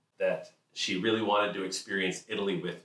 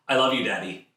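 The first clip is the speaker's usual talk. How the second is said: sweet little daughter; 3 semitones higher, 6 dB louder than usual. Retold or imitated. Daughter voiced in story.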